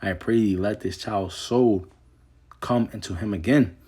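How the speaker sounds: measured King James reading voice; scripture reading. Acted. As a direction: read the verse with solemn weight. Reads scripture aloud.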